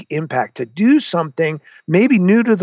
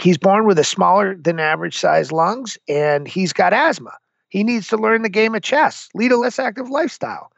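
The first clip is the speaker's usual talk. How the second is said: imitating a sour doctor, pitched higher and rising; mock doctor whose voice climbs higher as he goes; sour old doctor; 5 semitones higher than usual. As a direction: lightly mimic the snooty doctor delivering bad news. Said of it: "talking like he's smelling sour milk".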